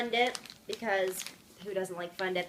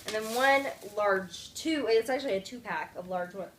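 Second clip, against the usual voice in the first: talking through hiccups; words broken by hiccups. Real, not acted. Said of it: "I have the hiccups again".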